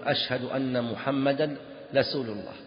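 رسول said with l for r, "lasul"; slow, turn the r of رسول into l; l-for-r lisp on رسول; lisp demo. Shown as a demonstration. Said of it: "أن ينطق الراء لاما".

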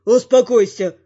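loud, sharp shout to calm him; shouted command. A narrator's reading. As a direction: yell it to stop a raging man. Companions restrain raging hero.

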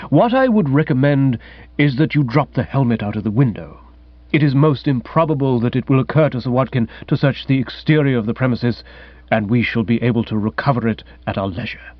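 lightly voiced composed valet; even, understated, deferential servant's voice; measured manservant. Manservant advising his master on hiding the helmet, lightly voiced and measured.

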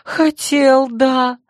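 put-on high, slow childish lunatic voice; babbling madman. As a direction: coo about yourself like a crazy child.

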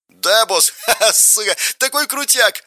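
high, laughing whoops of delight; laughing with joy. A narrator's reading. The bandit laughs with delight at his boss. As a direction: laugh through it, thrilled.

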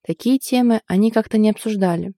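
ordinary delivery

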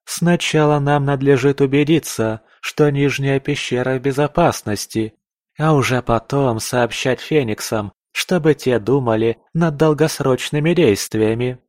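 lightly voiced woman, firm; female voice. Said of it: "женский голос".

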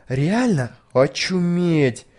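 slow, drawn-out amazement; amazed. A narrator's reading. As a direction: stretch it out in awe. (восхищённо, протяжно)

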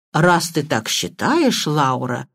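slow, drawn-out reluctant reply; drawling. Acted. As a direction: stretch the words out lazily. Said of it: "протянул он". (протяжно, нехотя)

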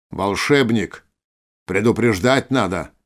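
teasing quote of the dwarf; mocking mimicry. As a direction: parrot his words back mockingly. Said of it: "передразнил его Виктор". (передразнивая)

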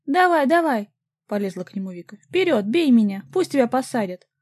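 very high, loud goading yells; taunting shout. A narrator's reading. Vika goads her ex to strike her, shouting high. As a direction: dare him to hit you.

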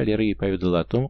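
plain reading voice

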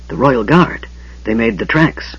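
urgent hushed panic; frantic whisper. Acted. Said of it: "Raistlin whispered frantically".

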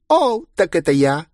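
put-on high delighted girlish squeal; joyful squeal. A narrator's reading. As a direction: squeal it with glee. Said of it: "обрадованно взвизгнула девчонка". (радостный визг)

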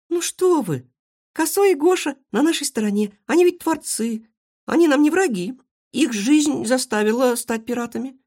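high eager persuading. Acted. Marysya persuades her friends the pirates are harmless, high and eager. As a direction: talk the friends round, pleading. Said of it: "убеждала друзей Марыся".

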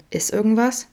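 gentle question, lifted in pitch. A narrator's reading. Friend noticing something is wrong, gentle. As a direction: ask softheartedly, lifting high at the end. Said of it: "fragte Vincent sanft".

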